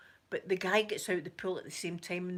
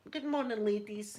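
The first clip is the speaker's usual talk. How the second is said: cheery greeting. Retold or imitated. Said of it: "my usual bit".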